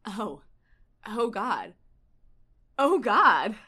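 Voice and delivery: swelling to a loud Oh God; overwhelmed exclamation. Acted. Character overwhelmed, read aloud.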